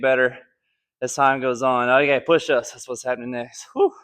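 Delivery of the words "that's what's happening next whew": winded, panting between words; out of breath. Real, not acted. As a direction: talk while catching your breath. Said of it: "Running out of breath".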